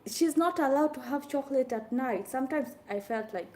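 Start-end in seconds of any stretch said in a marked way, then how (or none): 0.1-2.3 retorting loudly. Retold or imitated. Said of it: "I'm like".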